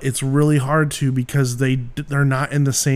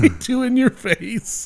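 high goofy hick voice, laughing through it; Ernest voice; 9 semitones higher than usual. Retold or imitated. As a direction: put on a goofy Ernest twang. Jim Varney voice bit.

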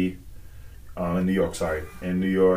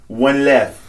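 laughing mock server; 5 semitones higher, 5 dB louder than usual.

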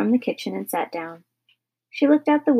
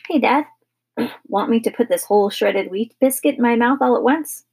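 put-on raised, eager kid's voice; 3 semitones higher than usual. Son showing off to his father, eager. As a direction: pitch it up like a boy proposing a stunt. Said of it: "eagerly at his father".

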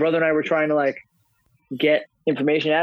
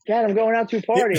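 put-on teen voice; 7 semitones higher than usual. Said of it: "he's like".

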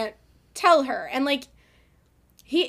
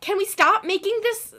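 exasperated plea; 6 semitones higher than usual. Acted. Exasperated plea to male characters.

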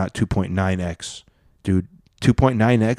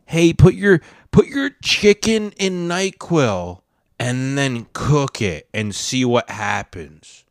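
mock TikTok voice; 3 semitones higher, slower than usual. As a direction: parody a TikTok trend pitch. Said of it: "The TikTok trend is".

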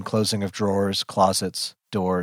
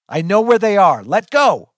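high, loud struggling shout; desperate yell; 10 semitones higher, 8 dB louder than usual. A narrator's reading. Held-back narrator fights to break free, yelling. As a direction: shout to be released. Struggling against people grabbing.

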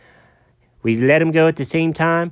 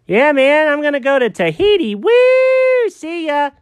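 high, loud giddy celebration; giddy whoop; 11 semitones higher, 3 dB louder than usual. Acted. Jenkins boasting to Alfred about Tahiti, giddy. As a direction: whoop like you just won big.

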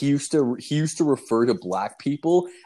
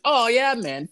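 high, loud stoner enthusiasm; eager buddy; 12 semitones higher, 3 dB louder than usual. Retold or imitated. Buddy answering a request for weed, eager high-pitched yes. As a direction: jump in keen, pitched way up.

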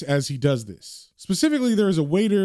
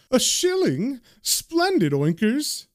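mocking laugh; 7 semitones higher, slower than usual. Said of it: "the second man begins to laugh and says".

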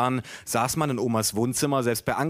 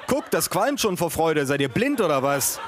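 higher-pitched, hammed-up urging; mock exclamation; 4 semitones higher than usual. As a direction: call out as if nobody else can see. Family shouting over picture book. (gespielt aufgeregtes Rufen)

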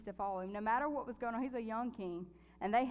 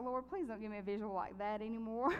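crying prayer. Retold or imitated. Retelling her dream, she begs the Lord through tears. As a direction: voice catching with tears as she prays. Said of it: "broke down in tears".

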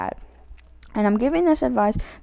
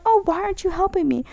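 higher-pitched mock whine; mock complaint; 8 semitones higher than usual. Friend who said they were fine, complaining in higher pitch. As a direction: complain in a raised, put-upon pitch. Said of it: "And if they're like".

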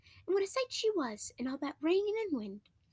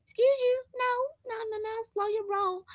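sassy princess; 5 semitones higher, 3 dB louder than usual. Retold or imitated.

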